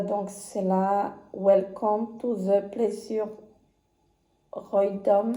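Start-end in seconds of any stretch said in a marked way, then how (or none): 1.3-5.3 slow, hesitant French-accented English; unsure English title. Real, not acted. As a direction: read the English name slowly, unsure of it. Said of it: "Je sais pas comment ça se prononce".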